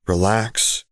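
relaxed, reassuring; calm them down easily; easy reassuring tone. Acted. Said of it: "reassured with an easy tone".

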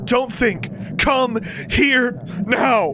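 high forceful command. A narrator's reading. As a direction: order her to come, no argument. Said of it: "Alexandra's voice was a command".

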